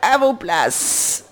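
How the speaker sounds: slow, loud, booming order; slow stentorian queen shout. Acted. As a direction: boom it across the field. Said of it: "d'une voix de stentor".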